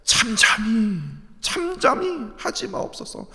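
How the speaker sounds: David's plea to a silent God; pleading cry. Acted. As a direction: implore God not to stay silent. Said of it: "하나님을 향하여".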